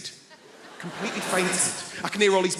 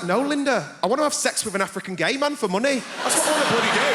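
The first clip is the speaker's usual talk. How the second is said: fed-up outburst; 5 semitones higher than usual. Retold or imitated. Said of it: "I was like".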